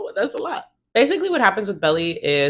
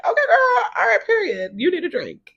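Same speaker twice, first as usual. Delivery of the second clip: much higher, laughing hype shout; hyped shout; 14 semitones higher than usual. Retold or imitated. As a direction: cheer her on like a hype girl. New friends hyping her up.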